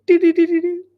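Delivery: high, quick, loud beeps; imitated alert sound. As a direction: imitate a phone alert chime. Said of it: "it sounded like the airdrop sound".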